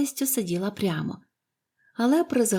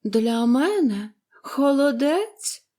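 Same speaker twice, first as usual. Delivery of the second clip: slow, higher-pitched querulous invalid; fretful; 6 semitones higher, 4 dB louder, much slower than usual. A narrator's reading. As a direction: draw the words out peevishly. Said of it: "пролунав вередливий голос". (вередливий, капризний голос)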